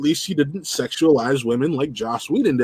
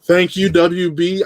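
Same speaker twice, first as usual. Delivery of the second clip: slow, drawn-out thank you, a bit higher; emphatic thanks; 4 semitones higher, much slower than usual. Real, not acted. Thanking the studio for blocking the storyline, slowed and emphatic. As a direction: lean on it like a grateful fan.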